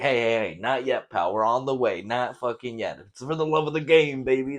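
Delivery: telling the coworker he streams for the love of the game, loud and hyped; hyped brag. Retold or imitated. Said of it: "I'm like".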